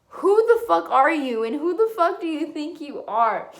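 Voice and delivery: who the fuck are you, shouted in anger; angry demand. Real, not acted. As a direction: confront them, outraged. Angry challenge to racists.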